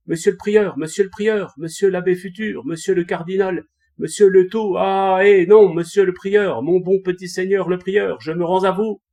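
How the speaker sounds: high, very loud panicked yelling; desperate shouting. A narrator's reading. Archer screaming in terror, begging the monk to spare him. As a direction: scream every title you can think of, in panic. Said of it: "l'archer criait".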